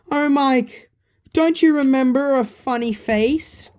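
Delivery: put-on high, loud kid voice for Balloon Boy; excited high character voice. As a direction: pitch it up as the cheeky balloon kid.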